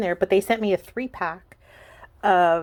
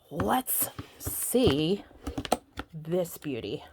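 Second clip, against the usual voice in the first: whisper; 2 semitones lower, much slower than usual. Real, not acted. Opening the box, hushed.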